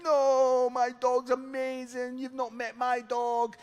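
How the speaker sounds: high, loud, offended protest; mock outraged dog lover; indignant dog owner. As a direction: defend the dog huffily.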